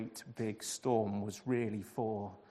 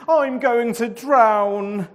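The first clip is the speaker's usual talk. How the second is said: high, loud, slow despairing wail; groaning in fear; 9 semitones higher, 14 dB louder, slower than usual. A narrator's reading. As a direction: drag it out in panic. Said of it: "Jonah groaned".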